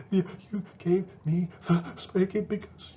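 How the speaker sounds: lightly voiced child. A child answering the parent who spanked him, lightly voiced.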